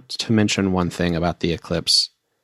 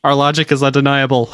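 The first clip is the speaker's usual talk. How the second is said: robot voice; 7 semitones higher, 6 dB louder than usual. Pretend. Joking mock robotic declaration.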